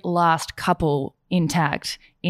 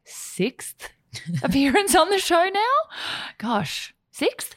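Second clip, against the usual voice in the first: laughing; 12 semitones higher, slower than usual. Real, not acted. Laughing while counting appearances.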